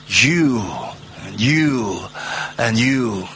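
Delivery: each "you" stressed and falling; repeated "you", each weighted. Shown as a demonstration. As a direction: tap out each "you" slowly. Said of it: "to put the emphasis on the pronoun".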